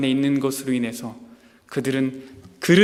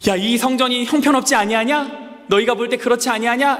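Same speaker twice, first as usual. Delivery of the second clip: higher, declaiming voice of God; God speaking; 7 semitones higher than usual. Acted. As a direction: proclaim it from above as God. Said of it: "하나님이 뭐라고 말씀하셨냐면". (높은 목소리로 선포하는 하나님)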